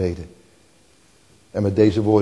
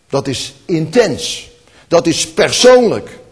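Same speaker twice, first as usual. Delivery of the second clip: slow, growing louder to a near shout; building to a cry; 5 semitones higher, 9 dB louder, slower than usual. Real, not acted. Preacher building up about prayer, rising to a loud cry. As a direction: climb from firm to calling out.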